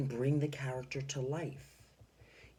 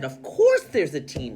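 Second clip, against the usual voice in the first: much louder, eager exclaim; excited; 12 dB louder than usual. Shown as a demonstration. Teacher voicing excited Missus Teaberry for the class. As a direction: burst out with enthusiasm. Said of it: "Missus Teaberry got excited".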